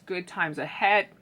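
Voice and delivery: talking through a burp; words pushed out around a burp; burping while talking. Real, not acted. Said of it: "Excuse me, like burping and trying to talk".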